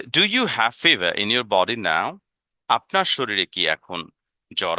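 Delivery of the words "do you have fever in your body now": very slow, each word drawn out for learners; teacher modelling English slowly; slow modelled question. Shown as a demonstration. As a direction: spell it out slowly for the class.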